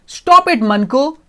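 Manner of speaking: father cutting the robot off, loud and high; father's stop. Acted. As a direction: stop him dead with one loud order. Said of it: "Ajay's father said".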